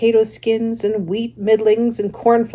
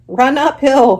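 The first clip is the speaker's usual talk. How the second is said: louder, higher sheep call; the sheep shout to Wilbur, louder and higher; sheep crying out; 6 semitones higher, 8 dB louder than usual. Acted. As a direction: bleat the advice. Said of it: "cried the sheep".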